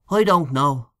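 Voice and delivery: dubious. Acted. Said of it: "said Mister O'Connor dubiously".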